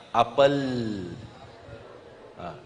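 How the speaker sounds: ordinary talk, nothing marked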